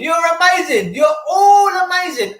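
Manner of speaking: overcome, near tears as he calls it out; emotional. Real, not acted. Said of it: "I'm so emotional right now".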